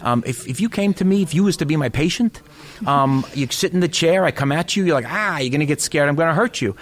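lightly hammed Staten Island dentist pitching an idea; New York dentist accent. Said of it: "it's a cliche accent".

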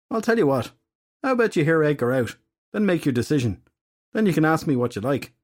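wheedling fairy detective. Acted. Filthy Henry coaxing Nemain to hear Edgar out, wheedling. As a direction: sweet-talk the goddess.

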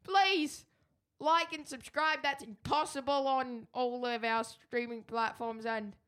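put-on high, loud, terrible South London accent; Eggsy. Co-host rushes to end the show as Eggsy, hammy South London accent. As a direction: push the fake South London accent up high to a big goodbye. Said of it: "That was terrible".

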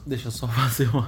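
talking through hiccups. Real, not acted. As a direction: speak while hiccuping, with little jumps. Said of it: "eu tô com soluço".

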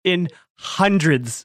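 In hundreds, slow and high, hundreds stretched; drawn out hundreds. Shown as a demonstration. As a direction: drag out hundreds for effect. Exaggerating hotel size.

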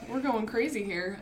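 monotone, no excitement at all. Real, not acted. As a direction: say it like it's boring news. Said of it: "She says in a monotone voice".

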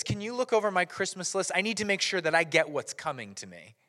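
lightly voiced entitled little sister; a touch of self-important insistence; Sally, acting entitled. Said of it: "acting very entitled".

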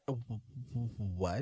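low, barely voiced stutter of disbelief; stunned stammer. Imitating Miss Walker hearing the news, stunned stammer. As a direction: stammer softly, as if winded by the news.

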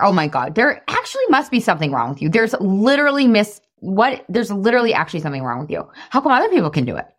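mock self-berating, mounting in disbelief; scolding inner critic. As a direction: berate yourself like a nagging inner voice. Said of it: "what my brain used to say to me".

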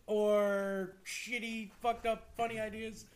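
laughing. Real, not acted. Laughing, joking title.

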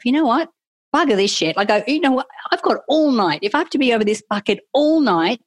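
worked-up self-talk; fed-up resolve. Retold or imitated. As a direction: dig in stubbornly, talking yourself into it. Retold defiant self-talk over bucket.

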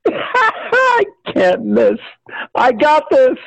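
high, elated self-talk; hammed-up high-pitched triumph; giddy confidence. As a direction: crow it up high with glee. The speaker elated at his chances.

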